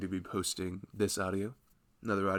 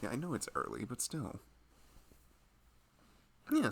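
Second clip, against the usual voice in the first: loving husband. Acted. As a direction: gently check in on your pregnant partner. Roleplays husband to pregnant wife.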